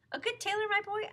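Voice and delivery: as if flattered; delighted surprise. Retold or imitated. Uncle Shelby answering the lion's question.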